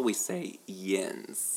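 "yins" said slowly and clearly as a local word; drawn-out Pittsburgh "yins"; slow careful "yins". Shown as a demonstration. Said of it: "Instead of y'all".

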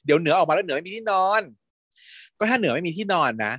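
high, fussy protest; mock protest. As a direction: hurriedly whine against it. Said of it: "รีบโวยวายเลย".

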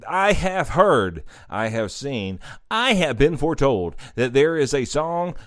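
lightly hammed-up solemn prophecy; mock prophet. Host foretelling the Christmas podcast, mock-prophetic. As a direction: intone it like a foretelling, in measured phrases.

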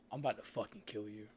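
low, even fake threat; deadpan mock threat. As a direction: threaten a stranger as a prank. Mock threat to strangers, trolling.

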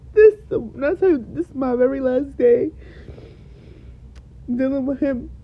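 fighting back crying; tearful. Real, not acted. Telling listeners it's her last day with him, tearful. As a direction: voice cracking with real tears on "very last day". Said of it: "I'm literally crying so much".

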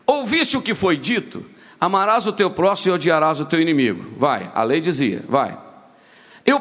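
preacher reading the Gospel verses aloud; scripture reading. Acted. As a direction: read the verses out to the church, steadily.

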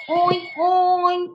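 oinking like a piglet; a teacher's playful pig noise. Shown as a demonstration. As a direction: oink oink for the class. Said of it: "What does a pig say?".

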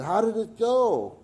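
high, slow, eager roommate voice; bright eager ask from a hopeful friend; excited question. Retold or imitated. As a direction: roommate asking eagerly about the exam.

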